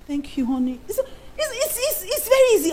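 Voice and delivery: breaking into high giggles; laughing. Real, not acted. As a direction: laugh through the words, voice cracking up high. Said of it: "far cry laugh".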